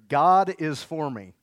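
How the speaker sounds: slow, loud, every word drawn out; slow call-out. Shown as a demonstration. Pastor leading the congregation in a slow, loud chant. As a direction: lead the church line loud and slow. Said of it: "So say this with me".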